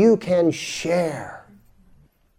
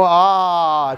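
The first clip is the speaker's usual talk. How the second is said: open ah. Shown as a demonstration. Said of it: "open your mouth and go".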